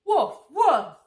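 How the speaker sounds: loud playful puppy woofs; puppy barks. Acted. Being Biscuit the puppy for the kids, loud playful woofs. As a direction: bark like a happy little dog.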